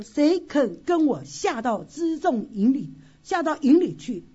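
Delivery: slow, loud rallying call; bold call. Acted. Quoting David's bold call.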